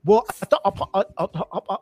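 stammered imitation of British interview speech; mock British accent. Host mimics British actors in interviews, mock British accent. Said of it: "how they can just erase their accent".

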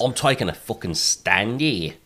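put-on a weak English accent, slow; a half-hearted English accent. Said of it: "I can't do an English accent".

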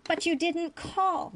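slow, high-pitched whiny protest. A narrator's reading. Ferengi boy objects to the doctor, protesting. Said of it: "Nog was still protesting".

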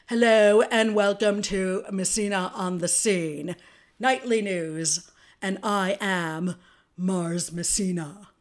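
hosting like Oprah opening her show. Acted. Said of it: "my best Oprah voice".

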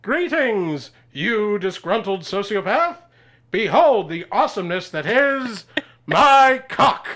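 superhero voice. Acted. Superhero hails robbers grandly.

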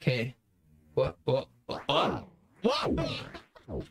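ghostly modulated voice; haunting voice effect. Real, not acted. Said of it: "You're haunting my".

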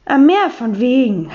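slow scornful scoff; mocking. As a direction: drag it out with contempt. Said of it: "hat Frau Sauermann gespottet".

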